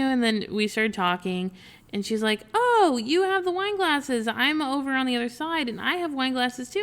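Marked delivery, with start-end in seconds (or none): 2.5-6.8 higher, louder, chatty imitation; playfully retold excitement; excited fellow potter. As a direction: imitate her eager greeting. Retold eager fellow potter at show.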